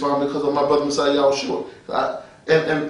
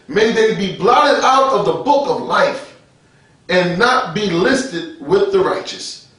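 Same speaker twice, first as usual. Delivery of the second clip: slow, solemn-paced Bible verse; scripture reading; slower than usual. Real, not acted. Preacher reading a Psalm to the congregation, slow scripture reading. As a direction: stretch each phrase as you read scripture.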